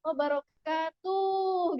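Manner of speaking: wabarakatuh as wabarokatu, very slow; mock wrong version. Shown as a demonstration. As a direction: drag out the common mistake. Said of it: "Kan sering ya kita mendengar".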